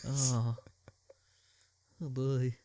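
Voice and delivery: ordinary talk, nothing marked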